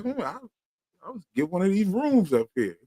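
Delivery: scheming whisper. Retold or imitated. Kenny quoted scheming.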